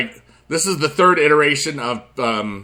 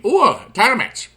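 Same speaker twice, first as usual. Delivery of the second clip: excited ooh; 9 semitones higher than usual. Real, not acted. Reacting to game reward.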